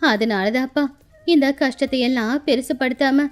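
lightly voiced stoic old woman; resilient old grandmother. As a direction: speak of hardship with patient resolve.

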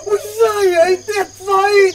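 loud, gushing fake praise; hammed-up enthusiasm; mock delight. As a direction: gush over the idea sarcastically.

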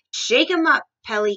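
loud, high storybook cheer-on; crying out. A narrator's reading. Giraffe urges Pelly to shake him, crying out. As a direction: call it out, punching the first words. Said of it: "cried the giraffe".

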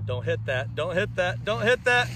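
low warning that climbs with each repeat; mounting warning. Real, not acted. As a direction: build from muted caution toward urgency. Warning as sledder nears camera.

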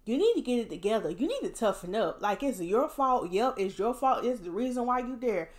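a harsh friend snapping back; mock harsh scolding. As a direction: play the mean tough-love voice. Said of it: "Would I be mean to them and say".

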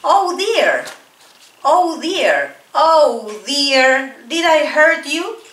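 teacher acting sorry for hurting someone; concerned oh dear. Shown as a demonstration. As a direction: fuss gently over someone hurt. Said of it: "Let's repeat".

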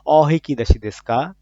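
slowed Japanese phrase; slow teacher's model of "অ হিকি দাসি দেশকা"; Japanese phrase modelled. Shown as a demonstration. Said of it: "সেটাকে বলে".

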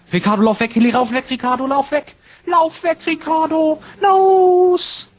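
rising, high urgent call to run; urgent yelling. Real, not acted. Urging teammate to flee.

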